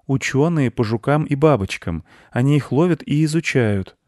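put-on high explaining boy; high-pitched young know-it-all; little boy.

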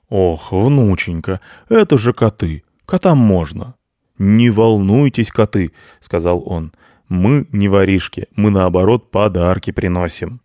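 calm the cats like a good grandpa; kindly Grandfather Frost. Acted. Ded Moroz reassures.

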